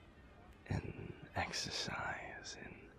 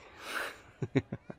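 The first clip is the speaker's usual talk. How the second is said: higher-pitched airy laugh; light chuckle; 6 semitones higher, 4 dB louder than usual. Acted. Joking about testing their stomach, light chuckle. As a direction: chuckle briefly, breathily.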